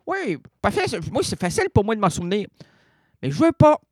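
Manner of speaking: high, loud whiny refusal; petulant refusal. Acted. Comedian whining to listeners that he refuses to remember. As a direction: whine it like a stubborn child.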